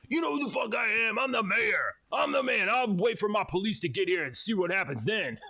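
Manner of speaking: a hammed-up "I'm the mayor" boast; retold yell. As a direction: play the self-important mayor yelling. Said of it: "yelled at him several times".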